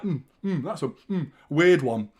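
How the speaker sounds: mumbled sulky mock, "Mm, mm"; mock sulking player. Fan mocking the subbed player, sulky. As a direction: lightly mimic a pouting player. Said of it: "Bottom lipping shit".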